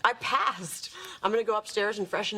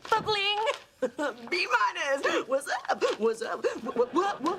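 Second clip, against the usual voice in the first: high, bright bragging; gleeful; 7 semitones higher than usual. Real, not acted. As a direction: crow it out with glee. Gloating about grade.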